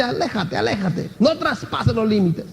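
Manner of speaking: God warning the people off the mountain, said in a hushed, grave voice; hushed divine warning. Retold or imitated. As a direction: hold them back in a hushed, grave voice. Preacher voices God's warning.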